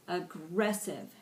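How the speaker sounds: "aggressive" with the stress on its second syllable, "gress"; stressed syllable shown. Shown as a demonstration. Teacher showing the class where "aggressive" is stressed, second syllable emphasised. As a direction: lean on "gress" in a slow "aggressive".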